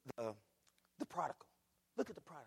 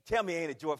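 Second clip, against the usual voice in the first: loud call; 8 dB louder, faster than usual. Shown as a demonstration.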